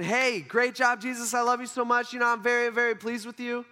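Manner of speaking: acted-out encouragement, kept up on a high note; lightly voiced approving God. God praising Jesus, a touch of enthusiasm. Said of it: "God is saying".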